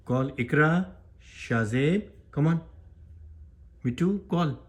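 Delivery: high-pitched pet-training call; coaxing a pet. Real, not acted. Prompting pet to call names.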